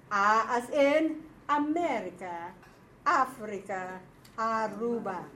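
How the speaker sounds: loud, slow classroom recitation; vowel drill for the class; teacher drilling vowels. Shown as a demonstration. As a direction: call out each vowel and example like a drill. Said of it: "Remember we have".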